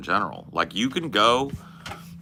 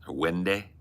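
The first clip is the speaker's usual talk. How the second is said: Northern Irish way of saying "windy"; Northern Irish accent; 5 dB quieter than usual. Shown as a demonstration. Showing chat how Northern Ireland says it, Northern Irish accent. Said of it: "In Northern Ireland, they say".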